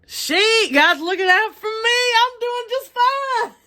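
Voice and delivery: high, put-on mocking voice of a smug racist; quoting a racist singer with a high, mocking put-on voice. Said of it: "as a racist".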